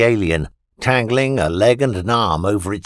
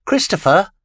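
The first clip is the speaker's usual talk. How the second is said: high, sharp alarmed call of the name; alarmed cry; 10 semitones higher, 3 dB louder than usual. A narrator's reading. Alien Vita cries out as Christopher turns on it, alarmed. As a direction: cry out his name in sudden fear.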